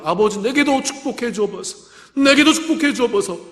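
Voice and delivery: rising plea, pitch climbing on the second 내게도; mock plea, voice lifting on the repeat; pleading wail. Preacher voicing Esau begging his father, rising plea. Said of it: "그가 울었다고 표현되어 있습니다".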